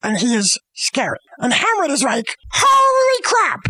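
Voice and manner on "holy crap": high, drawn-out mock shout; hammed-up shock at seeing a ghost; shocked exclamation. Hamlet sees the ghost.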